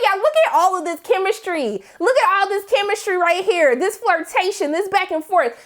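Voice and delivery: high-pitched gushing over the chemistry; excited gushing. Retold or imitated. Fan gushing to viewers about the couple's chemistry, high and excited. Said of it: "I said".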